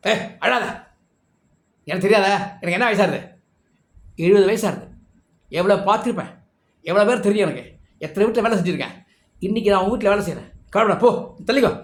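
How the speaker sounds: confident, take-charge imitation of an old maid; lively, insistent comforting with a boastful touch; brisk reassurance. Old maid tells weeping Sita to step aside, briskly reassuring.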